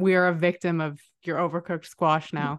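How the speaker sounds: ordinary talk, nothing marked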